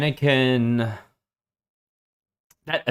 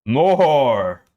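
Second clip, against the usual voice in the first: monster voice; 4 semitones higher, 6 dB louder than usual. A narrator's reading. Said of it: "His voice was even more unnatural".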